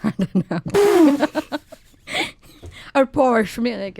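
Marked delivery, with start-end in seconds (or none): 3.1-4.0 Porsche said as PORSH before Munich; one-syllable Porsche. Pretend. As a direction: say Porsche with no final vowel. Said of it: "if that's how it is".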